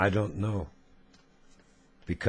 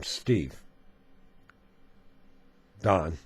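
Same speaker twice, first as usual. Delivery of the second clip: measured reading with emphatic openings; solemn letter reading; 4 dB louder than usual. A narrator's reading. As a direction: read the letter aloud gravely, phrase by phrase. Reads a viewer's letter aloud.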